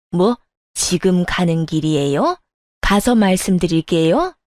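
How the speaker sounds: indignant elder mimicking a reply; mocking echo. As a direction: throw the words back as scornful questions. Mother-in-law throws the answer back.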